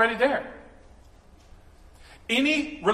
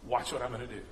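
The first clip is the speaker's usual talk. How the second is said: softer, hushed and reassuring; gentle voice of the Father; 7 semitones lower, 10 dB quieter than usual. Retold or imitated. God the Father reassuring his child, softly. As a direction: speak as a calm, trusting father. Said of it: "And our Father says".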